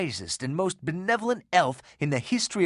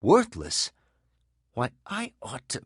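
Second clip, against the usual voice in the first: outraged; 2 semitones lower than usual. Acted. Virgil hearing his hero called worthless, outraged echo. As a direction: throw the word back in disbelief.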